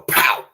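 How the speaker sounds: loud, sudden "pow"; imitated gunshot. Telling how he shot his uncle in GTA, imitated gunshot. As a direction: punch it out like a shot.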